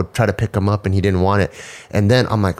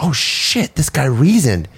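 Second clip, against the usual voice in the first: amazed; 5 semitones higher, slower than usual. Retold or imitated. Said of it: "I'm like".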